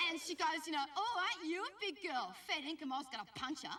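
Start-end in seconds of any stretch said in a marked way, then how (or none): 1.0-2.3 lightly voiced, higher-pitched nana; fussing grandmother. Nana greets her visiting granddaughter, lightly acted high-pitched fussing. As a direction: coo it a little, like a doting nana.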